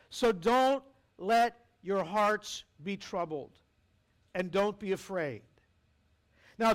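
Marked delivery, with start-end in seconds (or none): 0.1-5.4 gentle scripture reading. Acted. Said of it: "those are emphatic demands".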